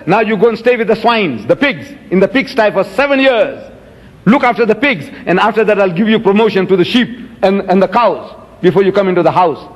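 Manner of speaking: harsh Shylock. Retold or imitated. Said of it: "That is not God. That's Shylock".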